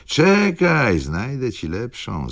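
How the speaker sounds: high, urgent call that drops in level. A narrator's reading. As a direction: cry out high on the first word. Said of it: "zawołał Rzecki". (wysoki, nagły okrzyk)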